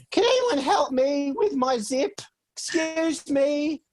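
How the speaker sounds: high, drawn-out mock Italian diva call; booming Italian voice. Guest imitating host asking for help backstage, booming Italian voice. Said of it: "this booming Italian voice".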